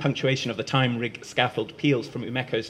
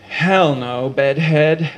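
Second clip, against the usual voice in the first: 1 loud refusal; 3 semitones higher, 9 dB louder, much slower than usual. Acted.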